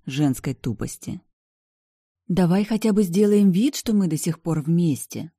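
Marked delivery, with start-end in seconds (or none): 2.3-5.3 high, begging coax; pleading. A narrator's reading. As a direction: wheedle him into pretending. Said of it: "выпрашивала брюнетка". (умоляюще выпрашивать)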